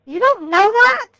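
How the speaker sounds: sharp, scornful question. Real, not acted. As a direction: sneer at him. Mocking the agent's English.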